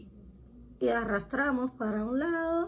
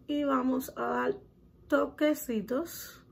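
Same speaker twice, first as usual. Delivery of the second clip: slow, drawn out toquecitos; slower than usual. Shown as a demonstration. Teaching viewers makeup dabbing, toquecitos said slowly and drawn out. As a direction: stretch out toquecitos slowly, rising at the end. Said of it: "primero es toquecitos".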